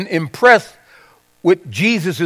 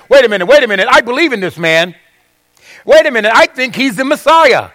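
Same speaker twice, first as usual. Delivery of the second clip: lightly acted urgent interjection; mock bold protest; 5 semitones higher, faster than usual. Preacher voices what Nicodemus didn't say to the Sanhedrin, mock insistent. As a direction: play an insistent objection, mildly raised.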